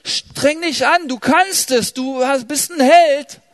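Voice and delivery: viel höher und lauter, überdrehtes Anfeuern; spöttischer Anfeuerer. Retold or imitated. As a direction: mach dich über den Anpeitscher lustig, der jedem Mut zuspricht. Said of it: "Denn wenn man dem Menschen sagt". (nachgeäffter Prediger, schrill anfeuernd)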